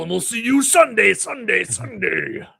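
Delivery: fading echoed sign-off; echo announcer. Pretend.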